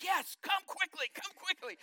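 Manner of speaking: high, loud pleading call to come forward; urgent call. Retold or imitated. Preacher grabs the mic to call people forward, high and loud. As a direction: urge the crowd to come quickly. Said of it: "he's like".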